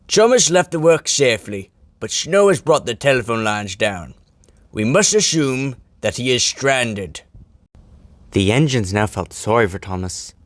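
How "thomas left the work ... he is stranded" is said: Fat Controller voice. Acted.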